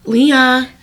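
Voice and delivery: Leah? called out again through a laugh. Retold or imitated.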